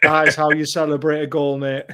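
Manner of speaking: firm, full-voiced comeback; triumphant retort. Fan schooling his workmate after going ballistic, triumphant retort. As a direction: land it proudly, like a point proved. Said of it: "I'm just like".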